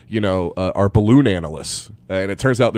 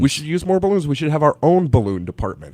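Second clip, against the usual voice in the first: mock military voice; 4 semitones higher than usual. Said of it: "They're like".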